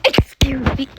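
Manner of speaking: gasped, breathy excuse me; offended whisper. Real, not acted. Girl mock-offended by her sister.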